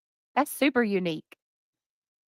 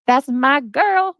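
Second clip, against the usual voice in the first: excited; 5 semitones higher, 6 dB louder, much slower than usual. Real, not acted. Greeting fan warmly.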